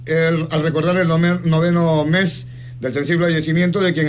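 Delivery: solemn radio invitation, evenly paced; formal announcement reading. Acted. Radio host reads a friend's memorial mass invitation to listeners, formal announcement.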